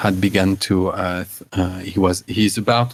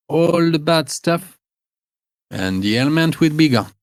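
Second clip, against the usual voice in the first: put-on higher-pitched old woman explaining a cure; higher old crone giving remedy advice; old woman herbalist; 8 semitones higher than usual. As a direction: play the old village healer, fussy and sure of herself. GM voices Gerda the herbalist.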